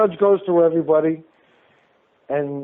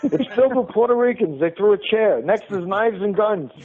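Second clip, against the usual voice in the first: higher-pitched, mock-alarmed urging to get out; raised-pitch storytelling panic, played for laughs; retold urgent plea; 5 semitones higher than usual. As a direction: act out wanting out now, half amused. Retells urging Otto to flee fight.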